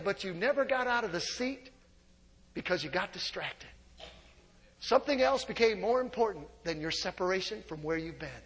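sincere, hushed appeal; quiet. Real, not acted. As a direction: drop to a soft, earnest hush. Sermon drops to intimate tone.

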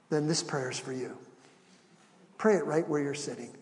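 ordinary delivery

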